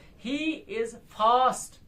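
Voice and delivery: he is fast word by word, fast strongest; light "he is", then a punched "fast"; stress on FAST. Shown as a demonstration. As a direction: hit the last word of he is fast. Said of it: "फास्ट strong हो रहा है".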